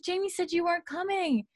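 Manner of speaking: imitated surprise, high and light on volume; retold astonished greeting; Claire, surprised.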